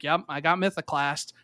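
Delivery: casual, offhand brag; understated shrug of a line; nonchalant. Retold or imitated. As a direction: toss it off like it's nothing. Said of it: "just like that".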